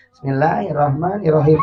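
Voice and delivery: low, soft, hurried recitation; old-man imam. Shown as a demonstration. Mocking how old men lead prayer, low and rushed. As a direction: rattle it off feebly like a grandpa. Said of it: "coba lamun aki-aki".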